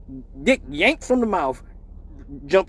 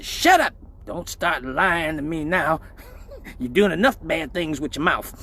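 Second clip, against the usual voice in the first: stern mom; 2 semitones lower than usual. Retold or imitated. Mom voiced cutting her off.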